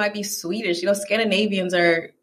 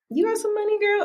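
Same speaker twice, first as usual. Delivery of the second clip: high-pitched imitation of someone after money; mock nosy asking; 12 semitones higher, 3 dB quieter, faster than usual. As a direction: put on a high, prying voice. Mimics people asking her for money.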